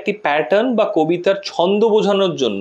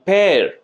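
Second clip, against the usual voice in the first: পেয়ার stretched out with emphasis; teacher's demo of a long, stressed পেয়ার; stressed, drawn out. Shown as a demonstration. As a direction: lean on পেয়ার and draw out its vowel. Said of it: "টেনে যেন বলতে হচ্ছে".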